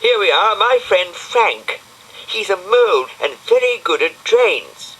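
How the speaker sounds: a fussy little snail explaining, unhurried; Brian the snail. Acted. Brian introduces Frank.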